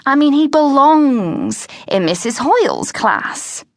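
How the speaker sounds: mortified teacher. Acted. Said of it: "mortified because she thought".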